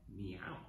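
low, soft meow; cat meow. Shown as a demonstration. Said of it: "Cat pose".

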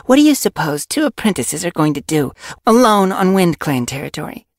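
furious. A narrator's reading. Apprentice argues for fetching their mentors, furious. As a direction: argue forcefully, with controlled fury. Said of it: "voice was low and furious".

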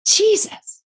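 a thrilled exclamation; joyful cry. Retold or imitated. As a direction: cry out "Jesus" in sudden delight. Calls out on seeing Jesus.

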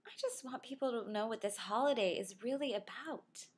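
hint of a five-year-old's voice; earnest young daughter. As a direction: imitate a child earnestly explaining to mom. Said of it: "She said".

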